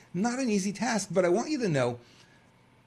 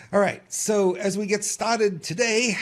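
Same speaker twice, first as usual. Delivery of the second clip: slow, louder New York accent on the opener; 5 semitones higher, 4 dB louder than usual. Real, not acted. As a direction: let the New York accent slip out, drawn out and higher. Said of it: "I use my New York accent there".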